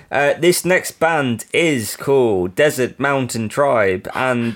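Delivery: slow put-on Albanian accent; a lightly voiced Albanian accent for the intro; mock Albanian accent. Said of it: "Why are you talking like that?".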